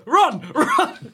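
shouting. Real, not acted. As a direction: yell it as you flee. Fleeing the encounter.

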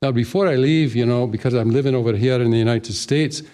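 conversational Scottish brogue; Scottish accent. Retold or imitated. Fake Scot telling the girls his plan, Scottish accent. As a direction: keep up the Scottish act. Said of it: "let them think I'm from Scotland".

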